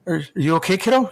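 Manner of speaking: hammed-up caring coach checking on his player; mock concern. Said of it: "He's like".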